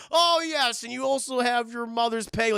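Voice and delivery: high, loud goofy lisp; hammy deformed creature; lisping monster voice. Retold or imitated. Clayface's hammy son act.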